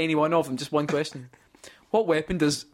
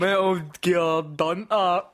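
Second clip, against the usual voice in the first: laughing; 4 semitones higher, slower than usual. Real, not acted. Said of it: "you tried so hard just to pass that off".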